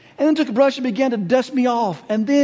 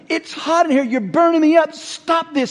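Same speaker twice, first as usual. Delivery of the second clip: yelling; 4 semitones higher than usual. Acted. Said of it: "I yelled out to him".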